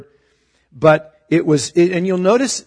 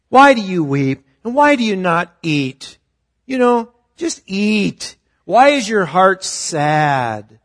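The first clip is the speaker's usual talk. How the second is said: higher, louder puzzled pleading, slowing at the end; clueless husband pleading; 4 semitones higher, 4 dB louder, slower than usual. Retold or imitated. Elkanah asks his weeping wife why she won't eat, baffled and pleading. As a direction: play the baffled husband who just doesn't get it.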